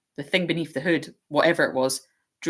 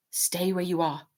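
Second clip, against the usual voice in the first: hoarse; 2 semitones higher than usual. Acted. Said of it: "in the same hoarse voice".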